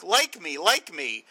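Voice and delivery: mock needy plea, pitch swooping; punchy, swooping mock plea to be liked; imitating eager pleading. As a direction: beg for approval in a hammed-up imitation. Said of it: "this shuck and jive kind of thing".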